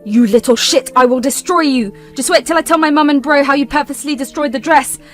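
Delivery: loud, spiteful threats; the exposed sister swearing revenge, loud and venomous; angry threat. Acted. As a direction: spit the threats out. Villain lashing out.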